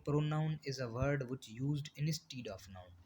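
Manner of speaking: very slow, word-by-word reading of the definition; slow dictation. Shown as a demonstration. Teacher dictating a definition to the class, very slow and even. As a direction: spell the definition out slowly for students to copy.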